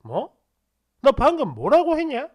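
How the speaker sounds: retold icy challenge, rising on the question; suddenly icy. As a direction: turn cold and demand an explanation. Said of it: "엄청 싸늘하게". (갑자기 싸늘하게 되묻듯)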